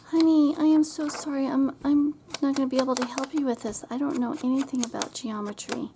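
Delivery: high, loud, rushed apology; apologetic mom. Retold or imitated. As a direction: blurt the sorry out loud and fast. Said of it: "and I'm like".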